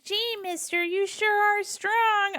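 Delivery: awestruck little kid from an old cartoon; wholesome 1950s kid. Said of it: "me quoting Hercules".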